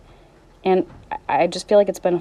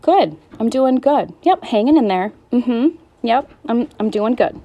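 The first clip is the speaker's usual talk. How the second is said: higher, louder, put-on cheer for people; autopilot cheery reply; 6 semitones higher, 4 dB louder than usual. Telling well-wishers she is fine, mock cheerful. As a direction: rattle off the brave reply on autopilot. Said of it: "I always say".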